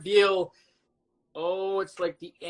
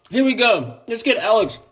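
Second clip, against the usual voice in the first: usual speaking voice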